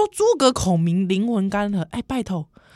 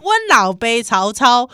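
Taiwanese Hokkien; 3 semitones higher, 5 dB louder than usual. Pretend. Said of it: "不是，是阮".

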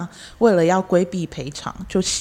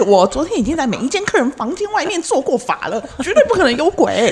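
mock priest; 7 semitones higher than usual. Pretend priest reply.

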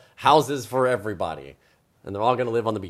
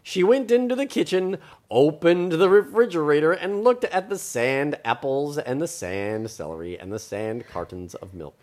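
story narration; 2 semitones higher than usual. A narrator's reading. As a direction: read it like a picture book. Reads story aloud.

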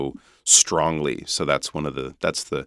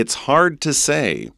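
It's hard to say said high, with hard stressed and falling; lifted demo take; 7 semitones higher than usual. Shown as a demonstration. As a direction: raise the voice on hard, then let it drop. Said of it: "can we say it in English?". (高声示范，重读hard)

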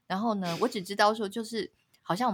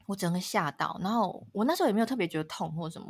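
usual speaking voice

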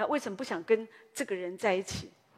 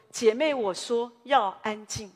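slow and louder, a stern pastor's correction; hammed-up strict pastor telling her off; stern rebuke; 6 dB louder, slower than usual. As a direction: lay down the rule firmly and slowly. Pastor rebukes the sister sharply.

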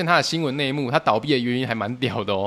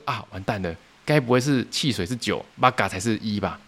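sinking dread; 4 semitones lower than usual. Retold or imitated. Realizing the mistake.

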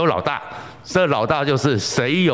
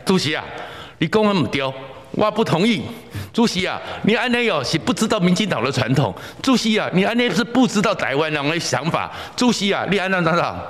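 mocking elder heckler; 6 semitones higher than usual. Old party elder heckling chairwoman.

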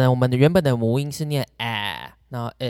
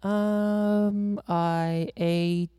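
slow, higher "You mean, what" to buy time; stalling by repeating; 5 semitones higher, much slower than usual. Shown as a demonstration. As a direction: repeat the question back, drawing it out. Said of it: "那你就可以repeat他的问题".

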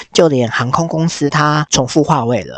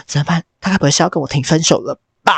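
fast anxious fretting; 4 semitones higher, faster than usual. Retold or imitated. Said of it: "克拉拉就开始又抓嘛".

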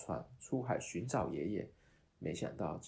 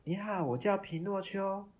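higher, louder wooden puppet greeting; 12 semitones higher, 7 dB louder than usual. Acted. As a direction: sound like a puppet that just woke up. Puppet comes alive and speaks.

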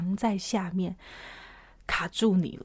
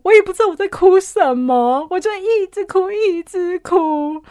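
retold crying; 8 semitones higher, 6 dB louder than usual. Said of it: "崩溃大哭".

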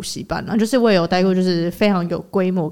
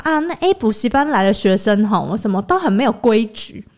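disdainful remark. Retold or imitated. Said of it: "他就很直接说什么".

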